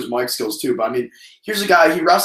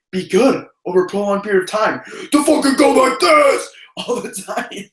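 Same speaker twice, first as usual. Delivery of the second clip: raspy voice; 6 semitones higher than usual. Shown as a demonstration. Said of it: "He's gonna be talking like this".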